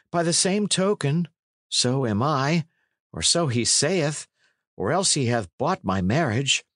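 a hint of an oppressed youth; John Matcham. Plays lad explaining his wardship.

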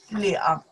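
两 modelled as a teaching word; pronunciation of 两. Shown as a demonstration. Teacher giving students another reading of number two, 两 demonstrated. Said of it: "We can say".

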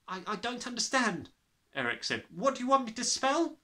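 put-on high, timid boy's voice; brave small boy. Small boy daring to question the headmistress.

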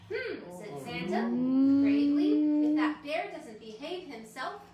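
storybook reading for little ones; reading to children. Acted. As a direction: read it like a bedtime story. Reads a children's book aloud.

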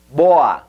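BOA as "BOH-ah"; Portuguese pronunciation. Shown as a demonstration. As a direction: stress the o in BOA, light final a. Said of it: "Y buena sería".

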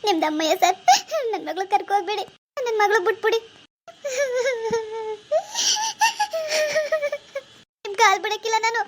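loud desperate begging, close to sobbing; tearful pleading. Acted. Mother begging the police officer not to take her daughter, tearful loud pleading. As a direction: plead through tears at his feet.

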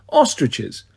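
Ostriches? dropped low in a laughing disbelieving fall; amused disbelief. Acted. Apollo mocks the emperor's odd choice, incredulous. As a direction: repeat Ostriches? like it's absurd. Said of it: "I laughed at that".

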